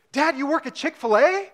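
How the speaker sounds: put-on high, loud excited child's voice; a little boy blurting out with a laugh; son's eager surprised question; excited kid. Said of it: "with this excited look on his face".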